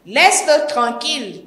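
plus haut, un peu plus fort, pour défendre son père; lance-le pour protéger le vieux; léger cri. Acted. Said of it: "cria la jeune fille". (la fille crie au vendeur de laisser son père, cri modéré)

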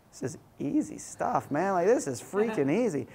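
breezy, pitch-swooping mock confidence; a touch of swagger, as if nothing to it; cocky self-talk. Rookie youth worker thinking ministry is easy, cocky.

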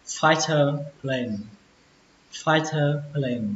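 "fighter plane" slowly, stress on "fighter"; deliberate teacher reading; slow model reading. Shown as a demonstration. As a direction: read "fighter plane" at half speed. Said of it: "Từ đầu tiên".

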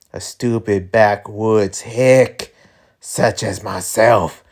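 lightly drawled cowboy villain; slow country drawl, lightly put on; Southern drawl character. Voices characters, mostly Montresor.

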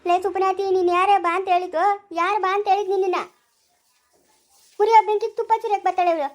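loud, abusive scolding; heated quarrel voice; angry telling-off. Acted. Insulting, telling her to shut up.

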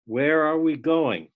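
measured poetry recitation with lingering names; poem reading. Acted. Student reads a parody poem to the class, measured recitation. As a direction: read it as verse, line by line with pauses.

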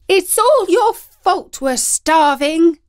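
high, loud, slow distressed wail; wife wailing at her husband, high and loud; high-pitched distressed. A narrator's reading. Starving wife blaming husband, high-pitched loud wail. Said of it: "said the woman in a high-pitched voice".

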